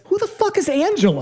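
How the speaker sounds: high, incredulous question; baffled. Retold or imitated. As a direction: squeak it out in disbelief. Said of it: "my note is".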